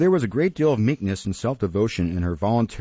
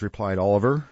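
usual speaking voice

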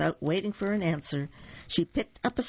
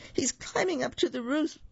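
very high-pitched little pig voice; squeaky pig raising the alarm; oinking; 10 semitones higher than usual. A narrator's reading. Second little pig warns about the wolf, oinking. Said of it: "oinked the second little pig".

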